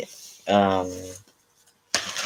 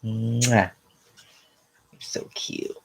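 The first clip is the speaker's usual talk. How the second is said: whispering to a puppy; 3 semitones higher, 4 dB quieter, slower than usual. Real, not acted. Kisses puppy.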